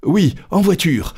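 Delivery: high-pitched, exasperated echo; Passepartout echoing. A narrator's reading. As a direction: repeat the call briskly in a high voice. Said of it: "répétait Passepartout".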